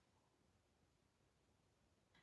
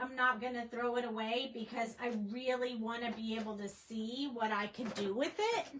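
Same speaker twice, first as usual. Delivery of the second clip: hiccups. Real, not acted. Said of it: "I have the hiccups".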